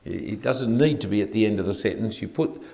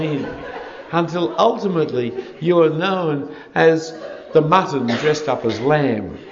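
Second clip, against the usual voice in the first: laughing; 3 semitones higher, 3 dB louder than usual. Real, not acted. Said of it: "laugh heard while joking".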